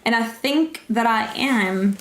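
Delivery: British accent, slowly drawn out; slow, hesitant British accent drifting Australian. Shown as a demonstration. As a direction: attempt British, sliding towards Australian. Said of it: "They love doing a British accent".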